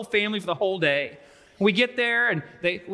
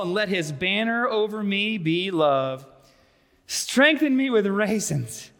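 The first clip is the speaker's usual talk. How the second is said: dramatic scripture reading. Acted. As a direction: read it as a woman faint with love. Reads scripture as the woman.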